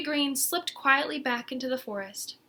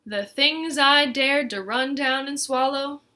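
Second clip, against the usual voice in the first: bragging; 3 semitones higher, 5 dB louder than usual. Acted. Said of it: "Umbles bragged".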